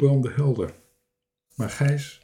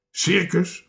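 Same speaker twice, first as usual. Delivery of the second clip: higher, taken aback; indignant question; 6 semitones higher than usual. A narrator's reading. Offended castaway asked about the circus, indignant. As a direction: echo it in disbelief.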